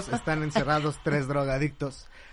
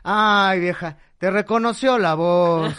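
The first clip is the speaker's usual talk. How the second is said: put-on deflated old man; 4 semitones higher, 6 dB louder, slower than usual. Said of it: "le empieza a bajar la voz".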